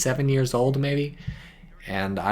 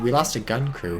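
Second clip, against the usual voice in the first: ordinary delivery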